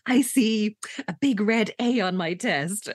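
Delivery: slow, drawn-out mock psychic vision; psychic trance. The speaker foresees her own test result, mock psychic. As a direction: play at seeing the future, slowly. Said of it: "rubs her temples with her eyes closed".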